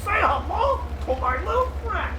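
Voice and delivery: high, put-on gangster line; movie gangster quote. Commentator voicing the Hetzer firing, high mock gangster line. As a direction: deliver it like a film villain. Quoting a film line for the tank.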